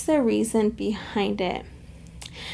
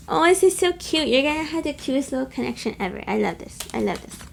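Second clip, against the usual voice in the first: gushing delight; 3 semitones higher, faster than usual. Real, not acted. Reader gushes to viewers over the cute connection, delighted. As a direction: coo with delight over something adorable.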